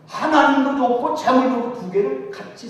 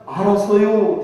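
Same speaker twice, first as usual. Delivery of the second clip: 알았어요 drawn out long and falling, louder; 느릿한 충청도 말투로 알았어요; slow Chungcheong drawl; 6 dB louder, slower than usual. Retold or imitated. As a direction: stretch out 알았어요 like a lazy country yes. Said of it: "대답은 잘하는데 십 년 가도 그게 안 나와".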